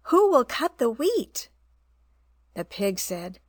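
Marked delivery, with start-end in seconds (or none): 0.1-1.5 high, brisk clucking question; brisk hen call. A narrator's reading. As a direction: call briskly across the yard. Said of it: "calling briskly".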